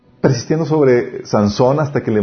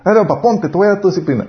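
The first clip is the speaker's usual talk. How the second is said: mock child scolding dad; 6 semitones higher, faster than usual. Child voiced disciplining parent.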